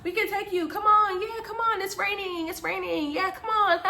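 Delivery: high, cackling imitation of a jeering friend; gleeful high-pitched goading; mocking laughter. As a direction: taunt through big put-on laughs. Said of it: "like, laughing".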